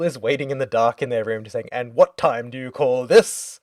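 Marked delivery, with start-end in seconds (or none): 1.7-3.6 slow, mock-stern scolding; stern parent. Jill scolding Chloe for coming home late, slow mock sternness. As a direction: drag it out like a disapproving parent. Jill waiting up after curfew.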